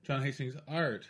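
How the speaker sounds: slow, with a slight hold before "Art"; comma then question mark. Shown as a demonstration. Guest demonstrating his weird album title, "Art" set apart. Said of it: "a comma then a question mark".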